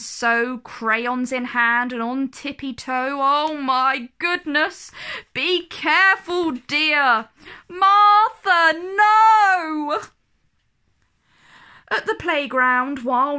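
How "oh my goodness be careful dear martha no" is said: higher, louder cry of alarm; panicked nanny rising to a shout. A narrator's reading. Nanny crying out as Martha misbehaves, alarmed shout.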